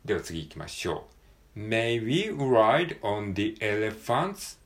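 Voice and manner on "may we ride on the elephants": slow, careful model question; slow model reading. Shown as a demonstration. Teacher reads the example sentence aloud slowly. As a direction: read it slowly for learners. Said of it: "model sentence read".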